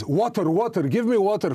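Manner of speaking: a hint of a parched fighter begging; thirsty soldier. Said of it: "Was that the accent?".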